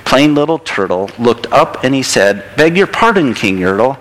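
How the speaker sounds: lilting, expressive picture-book narration; storybook read-aloud. A narrator's reading. Reading a turtle story to a child in church, storybook read-aloud.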